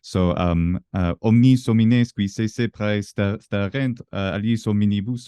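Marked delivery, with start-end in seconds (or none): 1.2-5.3 stereotypical French accent. Shown as a demonstration. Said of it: "stereotypical French accent".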